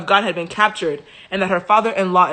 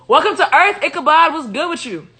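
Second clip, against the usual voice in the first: mock welcome; 8 semitones higher, 4 dB louder than usual. Ironic welcome to baby.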